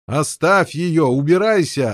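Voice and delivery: slow, loud yell. Acted. Knight yelling at Lancelot to leave. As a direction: roar him away. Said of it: "орал рыцарь".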